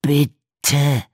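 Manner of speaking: high, loud begging cry; a frantic shout of please; desperate plea. A narrator's reading. Buried man begs Darby, frantic cry. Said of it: "Walters raue, verzweifelte Stimme".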